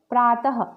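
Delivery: प्रातः ending in a clear breathy ह; visarga demo. Shown as a demonstration. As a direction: finish प्रातः with an audible ह after the vowel. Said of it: "वो ह के रूप में होता है".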